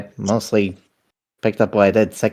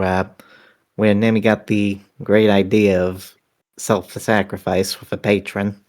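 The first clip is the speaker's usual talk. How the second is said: down a well. Real, not acted. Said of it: "you sound like you're at the bottom of a well".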